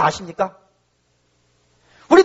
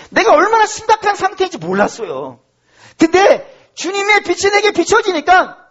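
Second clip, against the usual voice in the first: acted pleading to God, mostly pitched up; penitent prayer; 5 semitones higher than usual. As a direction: beg for mercy in a high, earnest voice. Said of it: "우리가 기도를 다 못할 판". (높은 목소리로 간절히 비는 회개 기도)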